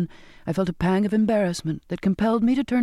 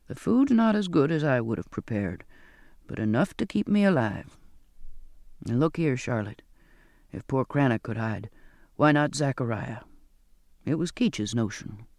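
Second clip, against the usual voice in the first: put-on low, softened old sailor; lightly voiced Zachariah; 5 semitones lower than usual. Zachariah tells Charlotte how he survived, lightly voiced and low. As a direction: let the voice sink as he explains.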